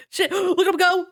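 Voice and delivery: high, gasping excited cheer; thrilled amazement. Real, not acted. Streamer watching him go, thrilled amazement. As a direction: marvel aloud with a gasp.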